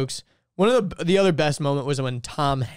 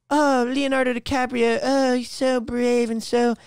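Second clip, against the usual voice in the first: mock fawning; 6 semitones higher than usual. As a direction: gush like an adoring fan, mockingly. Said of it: "And it's like".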